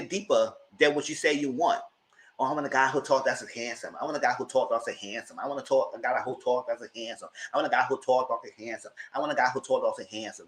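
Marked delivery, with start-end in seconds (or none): 2.4-10.5 lightly mocking, softer, singsong repetition; mocking parrot. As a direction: parrot her line over and over. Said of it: "That's how she was saying".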